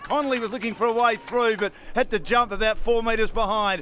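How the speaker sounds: brisk football commentator calling the play; live play-by-play. Acted. Caller describing the match to radio listeners, brisk play-by-play. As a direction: call each move as it happens.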